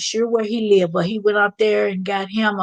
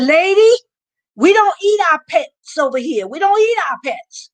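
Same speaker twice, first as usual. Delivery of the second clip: loud, higher call across the street; retold yell; 8 semitones higher, 5 dB louder than usual. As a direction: shout it over to the neighbor lady. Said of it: "He yelled out".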